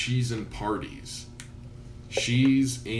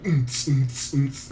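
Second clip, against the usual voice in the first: beatboxing music; 4 semitones higher, 4 dB louder than usual. Retold or imitated. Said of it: "he turns up the music".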